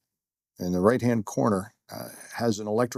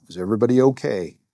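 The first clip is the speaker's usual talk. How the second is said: calling out; 2 semitones higher, 7 dB louder, faster than usual. Retold or imitated. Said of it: "look around and go".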